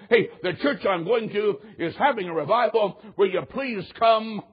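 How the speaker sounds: retold pleading invitation. Boss invites his employees to the revival, pleading.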